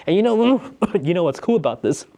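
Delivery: talking through a hiccup and cough; interrupted by a cough-hiccup. Real, not acted. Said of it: "I could cough a little bit on my hiccup there".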